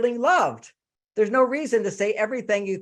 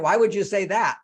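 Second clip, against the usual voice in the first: accusing; 4 dB louder than usual. Shown as a demonstration. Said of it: "You see the difference?".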